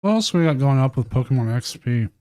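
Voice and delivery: talking with food in mouth; words round a bite of food; mouth full. Real, not acted. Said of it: "As I talk with my mouth full".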